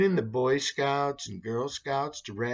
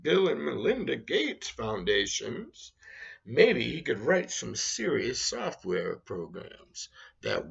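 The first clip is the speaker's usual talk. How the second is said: sarcasm voice. Acted. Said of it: "Sarcasm voice again".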